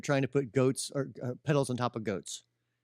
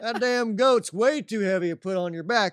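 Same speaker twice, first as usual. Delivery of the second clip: imitating an Indiana farmer's drawl, pitched higher; 6 semitones higher, 4 dB louder than usual. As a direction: do a local Indiana farmer's drawl, quickening at the end. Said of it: "sorry for the accent".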